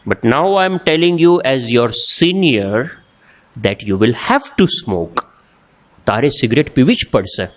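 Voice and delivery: mild retold anger, slow weighted English; slightly angry. Senior ordering the junior to smoke, mildly angry. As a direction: imitate a senior losing patience, measured and firm. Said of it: "પછી થોડોક ગુસ્સે થયો".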